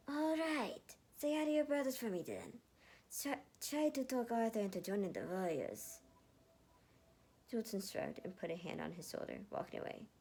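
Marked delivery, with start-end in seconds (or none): 0.1-6.0 high, bright-toned reply; friendly send-off; cheerful commander. Acted. Jultin answering Matthew, high and friendly.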